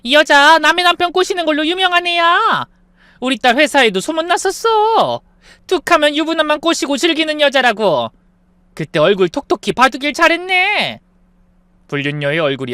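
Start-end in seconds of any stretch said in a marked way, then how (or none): 0.0-11.0 high, loud and worked up; excited accusation. Acted. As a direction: spill the gossip, thrilled. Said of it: "더 흥분해서".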